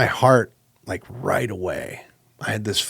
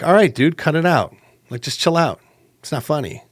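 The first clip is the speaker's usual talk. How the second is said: higher-pitched, exasperated telling-off; fed-up protest; 7 semitones higher, 3 dB louder than usual. Retold or imitated. Player to trash-talking pal mid-game, fed up. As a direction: tell your pal to quit it, pitched up.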